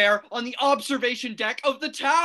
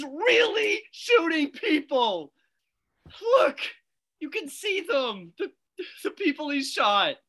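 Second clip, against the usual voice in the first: tearful. Acted. Witness to shooting, crying.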